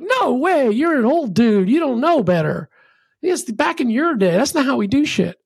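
imitating cocky kids brushing off an old-timer; hammed-up sneer at the old dude; dismissive young dev. Young engineers dismiss old CEO.

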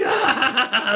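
high mocking cackle; goblin laugh. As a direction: burst into a jeering laugh. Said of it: "He's like".

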